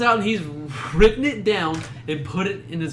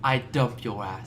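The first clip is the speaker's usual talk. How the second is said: impression; 6 semitones lower, 6 dB quieter, slower than usual. Shown as a demonstration. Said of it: "do their eleven impressions".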